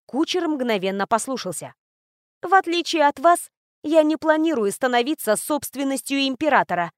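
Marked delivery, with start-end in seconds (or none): 2.4-6.9 through gritted teeth. Acted. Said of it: "произнесла я сквозь зубы".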